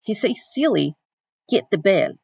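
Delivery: reading with a lightly attempted African American Vernacular accent; attempted Southern Black dialect. Teacher reading Celie's letter to students, in an attempted African American Vernacular accent. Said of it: "I'm trying to do the accent".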